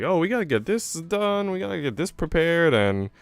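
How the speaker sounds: high, rushed mock panic of a stressed bride; mock freaking out. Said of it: "they're, like, freaking out".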